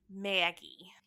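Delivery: breathy whispered name, spooky. Shown as a demonstration. Host whispers the character's entrance for drama.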